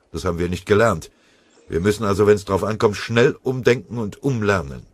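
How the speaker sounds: loud, forceful officer's briefing; company chief warning his men before the attack, loud and blunt; commander addressing his men. Acted. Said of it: "als er vor Angriffsbeginn sagte".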